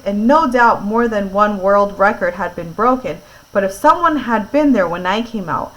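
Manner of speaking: clear, lively read-aloud voice; story narration. A narrator's reading. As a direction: read it to a listening class.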